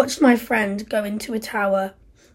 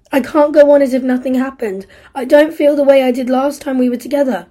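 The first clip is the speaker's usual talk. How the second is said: furious despair; 3 semitones higher, 7 dB louder than usual. Acted. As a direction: drive her away for good. Steve pushes Isla away.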